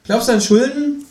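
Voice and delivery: high, loud, sulky kangaroo voice; grumbling kangaroo. Acted. Kangaroo grumbling in the waiting room, high and sulky.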